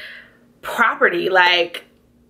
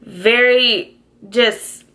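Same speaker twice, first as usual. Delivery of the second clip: close to tears; slower than usual. Real, not acted. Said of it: "I'm really gonna cry".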